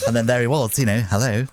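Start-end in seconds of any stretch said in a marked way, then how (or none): 1.1-1.4 lightly voiced, slightly robotic greeting; Tony Blair voice. Prime Minister answers the prank call, a hint of robotic politeness. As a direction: say it evenly like a machine-smooth politician. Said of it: "that sort of slightly robotic voice of Tony Blair".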